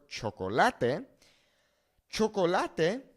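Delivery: chocolate as cho-co-LA-teh; Spanish chocolate with the stress on LA; chocolate with pure vowels, cho-co-LA-teh; Spanish pronunciation. Shown as a demonstration. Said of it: "the natural pronunciation is going to fall on this".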